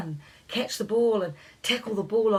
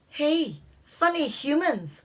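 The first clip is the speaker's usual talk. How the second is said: called out; 7 semitones higher, slower than usual. A narrator's reading. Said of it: "one of the Scottish fairies called".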